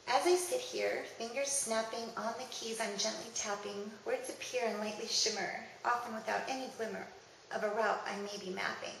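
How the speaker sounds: rhythmic, measured recital of rhymed verse; poem reading. Acted. Reading a poet friend's verse to listeners, rhythmic recital. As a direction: lean gently on the meter and rhymes.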